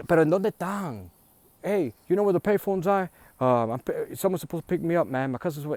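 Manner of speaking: high, loud, searching call. Retold or imitated. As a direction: ask strangers loudly, a bit lost. Lost relative calling at station.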